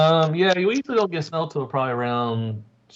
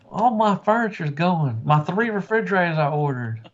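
mock lament; 5 semitones higher than usual. Acting out trucker losing his furniture.

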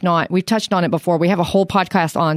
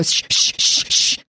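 sharp repeated whispered shushes; imitated shushing; slower than usual. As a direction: shush them like a noisy room. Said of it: "I hear one of the guys go".

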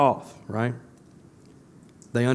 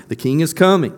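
louder and higher, the cry peaks; louder proclamation; 4 semitones higher, 6 dB louder than usual. Acted. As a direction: shout the king's coming to the crowd. Repeated crowd cry, building.

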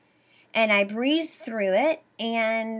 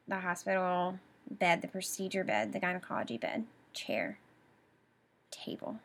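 2 softer on every word until only a whisper; 3 let each word sink lower and softer; 1 fading to nothing; 3 semitones lower, 9 dB quieter, faster than usual. Real, not acted. 4 recalling lying on the bed in pain, fading to a whisper. Trailing off, overwhelmed.

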